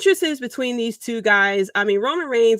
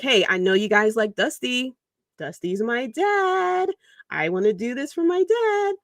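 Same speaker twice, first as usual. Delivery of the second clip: mock-sentimental, pitched up and slowed on dad; mock Cody plea; 4 semitones higher than usual. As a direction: ham up a son's tearful tribute plea. Mocking Cody's sentimental pitch.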